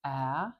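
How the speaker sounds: a clear open ah as in trap; demo vowel sound. Shown as a demonstration. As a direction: hold the vowel ah steady and open. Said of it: "It's the first vowel in my name".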